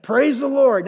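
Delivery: loud, high imitation of a fervent resident; exuberant praise call. Resident pointing at a visitor, loud praise call.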